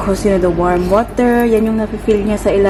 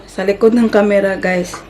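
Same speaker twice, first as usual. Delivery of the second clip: ordinary talk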